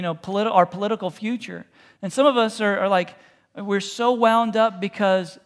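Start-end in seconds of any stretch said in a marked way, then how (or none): 3.5-5.4 slow, tense wound up. Shown as a demonstration. Pastor to worried congregation, slow tense. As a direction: stretch it out tense.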